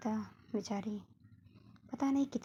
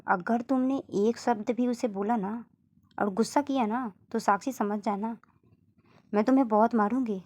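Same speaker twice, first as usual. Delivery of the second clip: mock threat; 6 dB louder than usual. माँ धमकी देती है.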